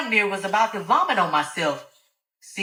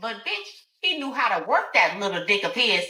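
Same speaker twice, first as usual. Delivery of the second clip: a somewhat higher taunting brag; mocking Alice; 5 semitones higher, 3 dB louder than usual. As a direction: humiliate her rival.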